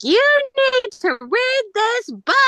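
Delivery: high, slow, brassy Brooklyn Italian lady; Brooklyn Italian accent. Retold or imitated. Therapist telling grieving client to read a book, mock Brooklyn Italian accent. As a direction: put on a crass Brooklyn Italian lady's voice. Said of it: "really crass Jewish Italian lady from Brooklyn".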